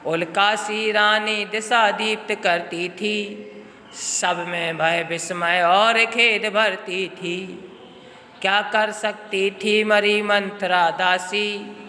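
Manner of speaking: slow, measured poetic recitation; poem recitation. Shown as a demonstration. Teacher reciting Kaikeyi's remorse verses to class, slow and solemn. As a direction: recite the verse slowly and gravely. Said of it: "वो कह रही हैं".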